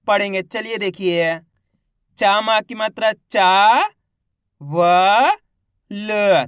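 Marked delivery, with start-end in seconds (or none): 2.2-6.4 long चा, then व and ल apart; isolated व and ल between pauses; letter by letter. Shown as a demonstration. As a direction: spell it out, holding each sound. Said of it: "किस तरीके से इनका उच्चारण करके".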